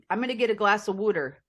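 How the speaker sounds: put-on Philly accent with "wooder" for water; Philadelphia accent. American host demonstrating local speech, Philadelphia accent. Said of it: "in Philadelphia, they say water".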